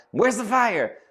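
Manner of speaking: high, urgent question; husband running in, alarmed; alarmed call. Retold or imitated. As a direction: burst in asking where the fire is. Rushing inside in alarm.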